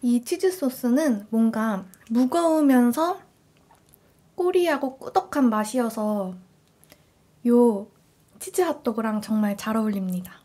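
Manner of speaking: chewing between words; eating while talking; mouth full. Real, not acted. Seen 0: closed-lip chewing, cheeks slightly full between words while holding sauce.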